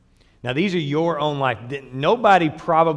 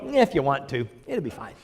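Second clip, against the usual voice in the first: mock gentle voice. Mock quote of permissive Jesus.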